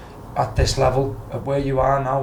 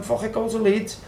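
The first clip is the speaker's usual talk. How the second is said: higher pitched, exasperated mock dad; retold dad's outburst; 8 semitones higher than usual. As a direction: throw it off like a fed-up father. Dad's blunt advice retold.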